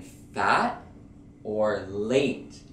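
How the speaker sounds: fat and late with the T held unreleased; stop T. Shown as a demonstration. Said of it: "you don't hear the T".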